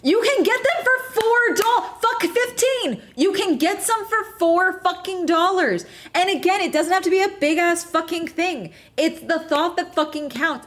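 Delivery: high-pitched, heated insistence; exasperated rant. Real, not acted. Telling men flowers are cheap, exasperated.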